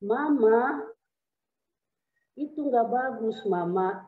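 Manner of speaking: mildly imitated patient husband; understated, unhurried reproach; slow gentle scolding. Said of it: "marahnya pun lambat, pelan-pelan".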